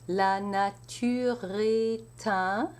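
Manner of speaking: est un linked with the T carried over; enchaînement shown. Shown as a demonstration. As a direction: link est un as one flowing sound. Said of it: "an enchaînement".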